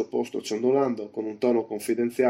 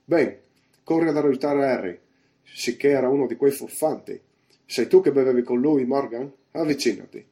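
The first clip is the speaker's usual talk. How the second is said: louder, indignant commanding voice; raised voice, short of yelling; shouting innkeeper; 3 semitones higher, 6 dB louder than usual. A narrator's reading. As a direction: call out orders and a summons. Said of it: "gridò Silver".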